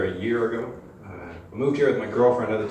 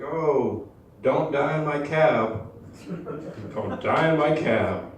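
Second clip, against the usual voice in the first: cab driver; 5 semitones higher, slower than usual. Retold or imitated. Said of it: "They're always like".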